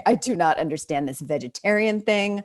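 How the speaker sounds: a Southern farmer grandfather puzzled by his grandchild; grandfather quoted. Retold or imitated. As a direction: grandfather baffled by vegetarianism and theater. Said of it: "he was like".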